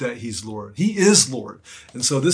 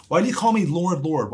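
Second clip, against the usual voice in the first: emphatic quoted question, raised in pitch; 4 semitones higher than usual. Acted. Preacher voicing Jesus questioning empty obedience, emphatic. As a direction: challenge them with an acted, higher-pitched appeal. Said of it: "Why are you so emphatic".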